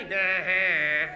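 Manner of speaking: feeble mock holler, low; tiny holler. Shown as a demonstration. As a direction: show a half-hearted little yell. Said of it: "no little tiny".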